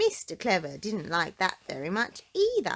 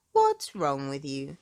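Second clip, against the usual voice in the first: lower, slow gentle question; lightly voiced kindly doctor; 5 semitones lower, 3 dB louder than usual. Doctor Make-You-Well to sorry Miss Trouble, lower gentle question. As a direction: coax her with a slow question. Doctor asks sulking girl.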